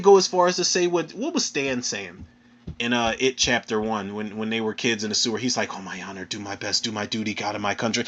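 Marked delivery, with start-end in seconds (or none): 5.8-8.0 low, soft mock chant; imitated muttered recital. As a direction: mumble the oath low, as if reciting it. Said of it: "yelling in his ear and whispering in his ear".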